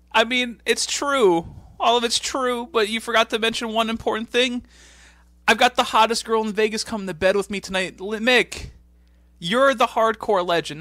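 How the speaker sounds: high, loud hammed-up promo voice; imitating Edge. Host voicing Edge to Mick, hammed-up high voice. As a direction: play Edge as an overexcited pal.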